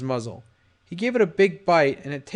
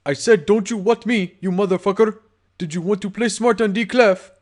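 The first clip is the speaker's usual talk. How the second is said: angry; 5 semitones higher, 5 dB louder than usual. Acted. Gangster threatens victim.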